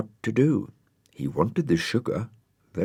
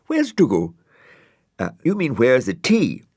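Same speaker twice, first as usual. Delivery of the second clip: a touch higher, chirpy; lightly high character voice; 7 semitones higher, 5 dB louder than usual. Acted. Friends asking about tea, lightly voiced. Florence then Brian voiced.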